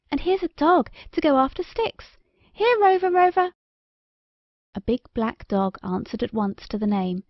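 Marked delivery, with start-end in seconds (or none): 0.1-3.5 higher, louder call across the beach; calling a dog. Acted. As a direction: shout for Rover to come.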